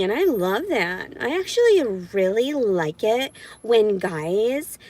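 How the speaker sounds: sarcastic mock agreement; condescending voice. Speaker sarcastically echoing excuses for abuse, condescending. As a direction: feign keen approval with exaggerated emphasis. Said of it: "that's the kind of condescending voice I do to men".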